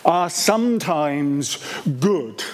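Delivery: "sometimes" drawn out slowly, a beat before what follows; stress on sometimes. Real, not acted. Preacher qualifying how believers do, stressing "sometimes". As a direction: lean slowly and deliberately on "sometimes". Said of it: "I emphasize this word".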